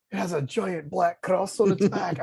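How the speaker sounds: put-on slow, shaky-at-best Irish accent; attempted Irish accent. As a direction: have a clumsy go at an Irish accent. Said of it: "can't even do an Irish accent".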